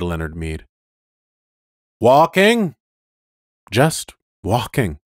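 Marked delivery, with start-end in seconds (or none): 2.0-2.8 incredulous. Acted. Police car questions disbelievingly. 3.7-5.0 simply. Acted. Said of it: "he said simply".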